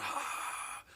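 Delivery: slow, high, shouted letdown; hammed-up announcer anticlimax. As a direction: stretch it out like a disappointing reveal. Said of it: "And he'd go".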